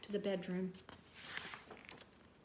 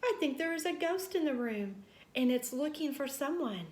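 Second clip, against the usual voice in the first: high, loud panicked calling; little mouse scared of a ghost; frightened yell; 8 semitones higher, 6 dB louder than usual. A narrator's reading. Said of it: "he yelled".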